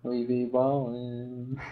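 slow swaggering slang delivery; slangy swagger. Pretend. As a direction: stretch it out with swagger. Slangy drawn-out catchphrase.

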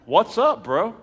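high-pitched, irked challenge; retold irritation. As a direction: confront a buddy, mock annoyed. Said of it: "I'm mad at this point".

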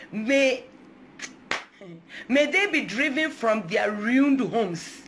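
slow, building curse psalm read; scripture reading. Real, not acted. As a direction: call down the verses on an enemy.

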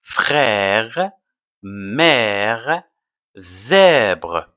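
"Frère, mère, zèbre" with long, wide-open è; open-mouthed è. Shown as a demonstration. Teacher repeats the list for pupils, open è in "Frère, mère, zèbre". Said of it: "Avec la bouche ouverte".

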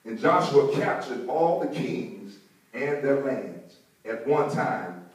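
slow, weighty Bible reading; scripture reading. Real, not acted. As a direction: read slowly, pausing between phrases. Reads scripture aloud to congregation.

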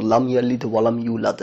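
লাম ইয়ালিদ ওয়া লাম ইউলাদ run together with plain Bangla দ; Bangla-style pronunciation. Shown as a demonstration. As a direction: recite ইয়ালিদ and ইউলাদ without Arabic accent. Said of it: "না". (বাংলা ধাঁচে টানা, সাধারণ দ দিয়ে ইউলাদ)

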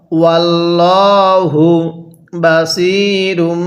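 বাসিরুম held with a humming nasal m, slow; nasal ghunnah. Shown as a demonstration. Teacher demonstrates ghunnah on বাসিরুম. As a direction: hum the final m of বাসিরুম. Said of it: "অবশ্যই গুনাহ করতে হবে".

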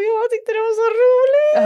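hög, utdragen röst på gränsen till skratt; skrattig munterhet. Real, not acted. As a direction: pressa fram orden högt genom skrattet. Skrattande återberättelse av roligt minne. (skrattkvävd, gäll munterhet)

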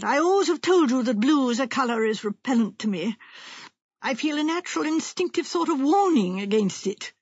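lightly voiced fretful wife; self-important wife. Wife claiming she always disliked blue, mildly self-important. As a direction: declare it with a touch of drama.

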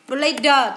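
"Player" said as play plus a voiced "duh". Shown as a demonstration. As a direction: say "Player" as "play-đờ", sounding out the final d. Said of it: "trường hợp ba".

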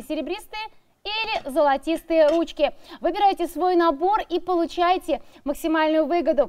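upbeat sales pitch read; infomercial. Acted. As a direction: sell it like a TV shopping host.

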